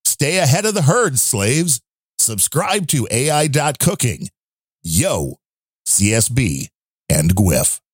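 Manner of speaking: deliberate, lightly theatrical read in short phrases; restrained character read, weighing each phrase; subdued character voice. Acted. Host reads listener's rant in subdued character voice. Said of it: "he likes the more subdued voice".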